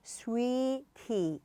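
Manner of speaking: sweetie slowly, SWEE long and tee short; sweetie, SWEE drawn out; slow stressed sweetie. Shown as a demonstration. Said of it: "앞에 좀 강세 주시면".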